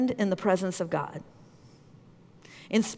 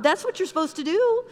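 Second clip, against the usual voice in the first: indignant, raised-pitch telling-off; acted stern rebuke; mean scolding; 5 semitones higher than usual. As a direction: lay down the law, demanding and stern. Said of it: "say it as mean as I'm saying it".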